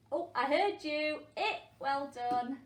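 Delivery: as if the class just shouted at her; delighted response; playful excited praise. Acted. Teacher answering children who shouted.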